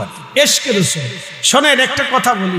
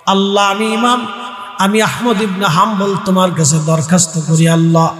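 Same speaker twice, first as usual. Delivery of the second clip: melodic preaching. Acted. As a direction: intone the prisoner's prayer with held line endings. Preacher chants story and prayer.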